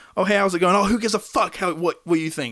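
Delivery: put-on mean, nasty tone. Retelling how a woman answered a greeting: imitating someone being mean. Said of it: "that's basically how she would talk".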